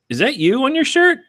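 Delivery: put-on high-pitched girl's question; mock high voice of a curious girl; imitated counter girl. Quoting the girl behind counter.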